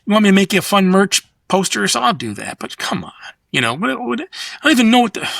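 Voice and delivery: gentle, no-hard-feelings refusal, dropping to near silence. Retold or imitated. Turning down a job, gently to the clients. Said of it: "very gentle and said".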